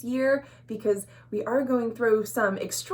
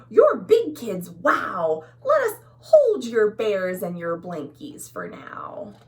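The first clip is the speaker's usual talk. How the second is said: exclaimed; 2 semitones lower, 5 dB louder, slower than usual. Acted. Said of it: "Their parents exclaimed".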